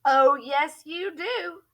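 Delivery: a mild mock shout that starts loud and drops off; hammed-up gorilla shout, only the start pushed. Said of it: "shouted the gorilla".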